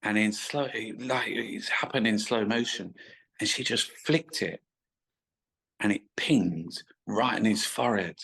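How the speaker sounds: ordinary delivery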